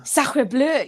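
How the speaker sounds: gasped, whispered sacre bleu; whispered French exclamation. Shown as a demonstration. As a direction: gasp it in mock French. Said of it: "I like to say that".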